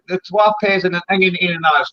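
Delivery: broad Dundee Scots, words run together; broad Scots "pehs" and "ingin"; Dundee dialect. Shown as a demonstration. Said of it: "Two pies and an onion one as well for".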